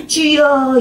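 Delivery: drawn-out, high-pitched cry to the Lord; prayer cry. Acted. Pastor showing the cry a struggling child finally manages, prayer cry. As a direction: demonstrate crying out in prayer. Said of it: "소리 지르는 게 어려워".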